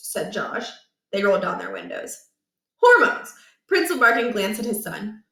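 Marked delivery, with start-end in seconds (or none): 2.8-3.3 emphatic declaration. A narrator's reading. Principal declares diagnosis.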